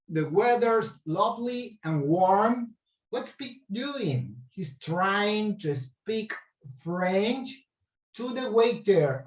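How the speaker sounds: slow reading. Shown as a demonstration. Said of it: "I'm gonna read it again".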